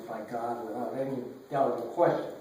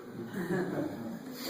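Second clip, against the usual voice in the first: emotional laugh; 4 semitones higher, 5 dB quieter than usual. Real, not acted. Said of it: "I'm sorry I'm emotional".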